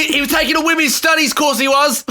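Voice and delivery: hammed-up English accent; put-on Cockney-style protest; mock English witness. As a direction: testify in a badly faked English accent.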